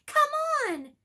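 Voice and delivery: high, loud frustrated shout. Acted. Harry shouting at the gargoyle. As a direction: yell in frustration. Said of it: "Harry shouted at it".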